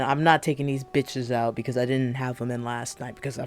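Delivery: talking with retainers in; words round a retainer; wearing a retainer. Real, not acted. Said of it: "I got my retainers in".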